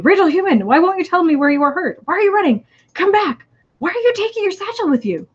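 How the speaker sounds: high, loud anxious alien. Acted. Reading to friend, alien Sal anxiously calls after Rachel, high and loud.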